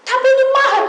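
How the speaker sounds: high, loud protesting voice; mock defensive congregant. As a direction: play the caller defending her drink. Menirukan jemaat membela. (membela diri dengan suara tinggi)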